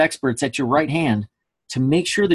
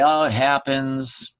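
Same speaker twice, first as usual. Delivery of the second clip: slow, mildly resigned brush-off; resigned shrug; much slower than usual. Pretend. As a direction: voice a verbal shrug, drawn out. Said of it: "Were you worked up?".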